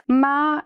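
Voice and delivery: Ma high and level; first tone ma. Shown as a demonstration. Teacher contrasts the four tones of ma. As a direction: hold Ma flat and high. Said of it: "it means mother".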